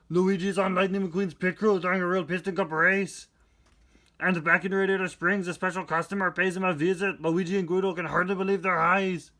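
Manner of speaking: put-on Austrian action-hero accent; deadpan muscleman reading the blurb; Arnold Schwarzenegger impression. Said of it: "I'll instead do it in an Arnold Schwarzenegger impression".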